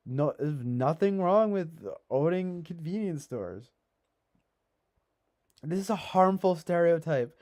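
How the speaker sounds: loud high sarcastic outrage; mock indignation, pitched high and loud; sarcastic rant. Sarcastic rant mocking critics.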